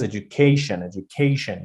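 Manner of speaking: "education" with the stress on "ca". Shown as a demonstration. Teacher showing students stress before the suffix, stressed "ca" in "education". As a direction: lean on "ca" in "education". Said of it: "you're putting ke".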